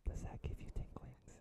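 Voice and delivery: soft teasing whisper for tingles; ASMR whisper. Pretend. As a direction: whisper close into the mic. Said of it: "is this like A S M R".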